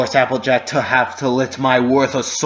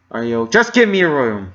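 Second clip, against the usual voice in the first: barked; 4 dB louder than usual. Acted. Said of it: "The bark burned at the mare's face".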